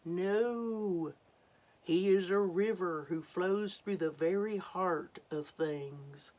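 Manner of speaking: mildly booming waterfall; a touch of thunder. Acted. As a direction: rumble it out, lightly. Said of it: "thundered the waterfall".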